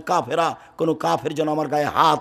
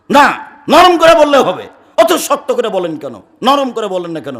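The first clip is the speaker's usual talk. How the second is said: retold shouting; 4 semitones higher, 9 dB louder than usual. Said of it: "আবার খুব চিৎকার করে বলছে".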